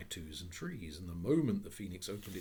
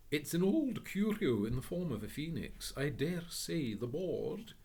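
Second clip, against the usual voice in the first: a gentleman reading out a label; reading the board aloud; 8 semitones higher, 6 dB louder than usual. Acted. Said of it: "said the nice gentleman".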